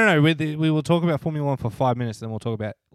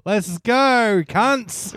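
loud, higher hyped-up cheer; Danny hyped shout; 9 semitones higher, 8 dB louder, much slower than usual. Retold or imitated. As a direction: fire up the crowd like Danny. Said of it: "Danny, get on there and he'd be like".

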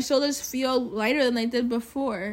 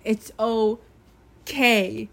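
soothing self-reassurance; 4 dB louder, much slower than usual. Retold or imitated. Reminding herself after a rough night, slow and soothing. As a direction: stretch out "It's okay" slowly, calming yourself. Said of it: "had to remind myself".

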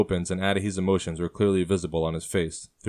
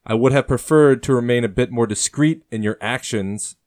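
firm, louder rebuke, pitch raised; stern; 5 semitones higher, 7 dB louder than usual. A narrator's reading. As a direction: scold him sternly, voice pushed up and out. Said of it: "Thomas says sternly".

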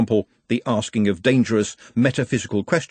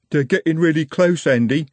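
urgent; 6 semitones higher, 4 dB louder than usual. A narrator's reading. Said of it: "said Jumbo urgently".

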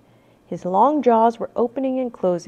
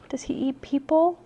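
whispered; 4 semitones higher, 5 dB quieter than usual. A narrator's reading. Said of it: "whispered Annie".

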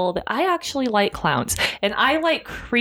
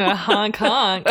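goose honk; slower than usual. Retold or imitated. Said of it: "That's also my goose noise".

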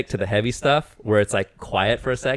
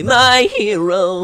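swooning fan; 10 semitones higher, 4 dB louder, much slower than usual. Retold or imitated. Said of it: "a rock singer's like, literally".

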